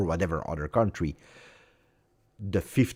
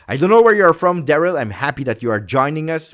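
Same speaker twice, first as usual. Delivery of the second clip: excited greeting; 7 semitones higher, 10 dB louder, faster than usual. Real, not acted. Greeting a viewer from chat.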